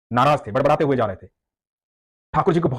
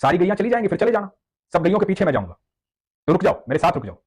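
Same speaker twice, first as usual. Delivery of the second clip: put-on higher childlike pleading; boy's voice; 5 semitones higher than usual. Cowherd boy coaxing the devotee to stay, high child voice. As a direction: coax the old man to wait. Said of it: "तो बच्चे ने कहा".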